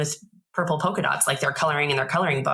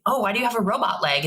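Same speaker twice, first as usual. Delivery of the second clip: put-on higher, eager child's question; light impression of a child; curious kid voice; 6 semitones higher, faster than usual. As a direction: ask it like a nosy little kid.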